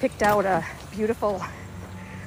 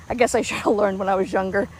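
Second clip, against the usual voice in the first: winded from walking; out of breath. Real, not acted. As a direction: talk while short of breath. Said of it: "I'm getting winded".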